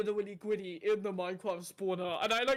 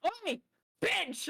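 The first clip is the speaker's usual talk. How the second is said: high mock-cheeky callout; Sweet; 9 semitones higher than usual. Close friend texting an insult, mock cheeky shout. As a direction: call it out high and playful. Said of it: "she just texts me and goes".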